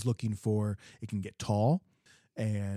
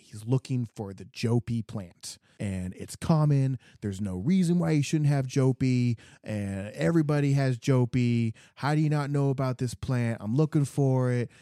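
1 mock insistent customer; 3 semitones higher, 4 dB louder than usual. Retelling the customer's rising insistence.

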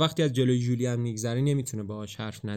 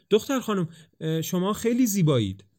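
miserable; 7 semitones higher than usual. A narrator's reading. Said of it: "با بدبختی بدترین جملهٔ قراردادی".

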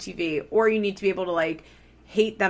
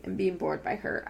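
yawning; 7 dB quieter than usual. Real, not acted. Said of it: "I yawned".

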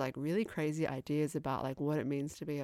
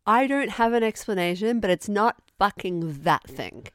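mock indignant outburst; 3 semitones higher, 8 dB louder than usual. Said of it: "I love the whole thing of".

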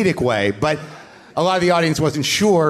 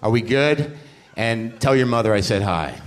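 sincere apology; 3 semitones lower than usual. Retold or imitated. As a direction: apologise to him earnestly and gently. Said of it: "I meant this genuinely from my heart".

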